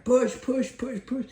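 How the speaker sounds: very high, loud push chant; dad cheering the baby, very high and loud; frantic cheering. Retold or imitated. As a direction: squeal her on. Climax of coaching.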